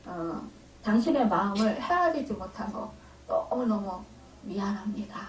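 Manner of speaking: soft, humble confession to his wife; hushed, heartfelt sorry; sincere apology. Retold or imitated. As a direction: quietly own up and ask forgiveness, fading to a whisper. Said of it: "솔직히 고백을 했대요".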